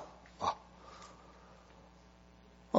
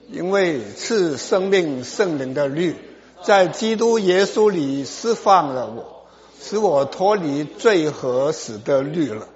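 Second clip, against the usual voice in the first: measured, declaimed verse reading; scripture reading aloud. Real, not acted. Preacher leading the congregation through Romans, measured scripture reading. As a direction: read each phrase out firmly for all to follow.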